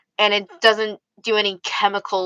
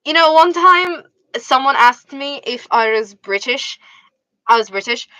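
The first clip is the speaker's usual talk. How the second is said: storytelling in a put-on British accent; British accent, chatty anecdote; 4 semitones higher than usual. Shown as a demonstration. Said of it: "can you try a British accent".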